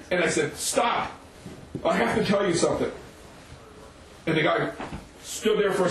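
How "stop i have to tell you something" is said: high, urgent command; urgent halt. Retold or imitated. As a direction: call out to stop someone charging at you. Halts attacker in retold confrontation.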